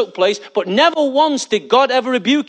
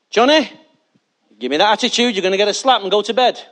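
scolding parent; 4 dB louder, faster than usual. Retold or imitated. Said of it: "And you say".

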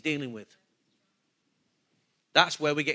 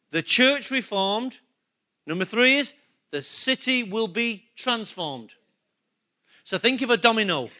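usual speaking voice

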